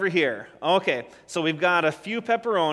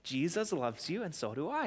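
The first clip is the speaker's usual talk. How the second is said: much softer, nearly whispered; hushed; 9 dB quieter than usual. Shown as a demonstration. Children's leader showing kids what to say to each other, hushed. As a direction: say it quietly, just to one person.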